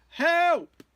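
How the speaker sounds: high, loud storybook shriek; acted cry for help. A narrator's reading. Frightened sister looks into the water, acted cry for help. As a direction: yell out in mock panic. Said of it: "the other one cried".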